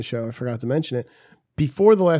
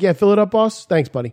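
job site guy voice; 4 semitones higher, 4 dB louder than usual. Retold or imitated. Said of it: "I'll be like".

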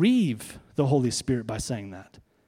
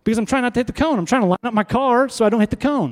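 retold own answer; 6 semitones higher, faster than usual. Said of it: "I said".

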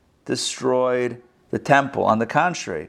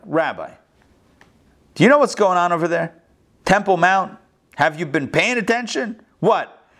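worried questioner; 3 dB louder than usual. Retold or imitated. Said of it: "I get this question all the time".

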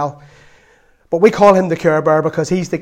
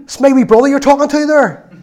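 loud, higher shouted warning; shouting brother; 7 semitones higher, 5 dB louder than usual. Retold or imitated. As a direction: call out to defend a little brother. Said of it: "he shouts at the guy".

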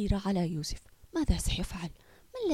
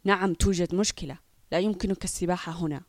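scornful, a bit lower and louder; contemptuous; 3 semitones lower, 4 dB louder than usual. Acted. Lifeguard dismissing the boy, scornful. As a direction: talk down to him with contempt. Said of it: "رد باحتقار".

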